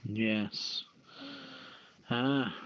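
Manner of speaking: usual speaking voice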